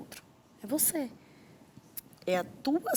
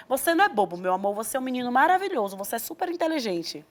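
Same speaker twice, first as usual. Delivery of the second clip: louder, lightly hammed-up parental praise; over-reassuring parent; 4 dB louder than usual. Parent contradicting a child who feels silly, mildly gushing. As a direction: pile on the praise like an insistent parent.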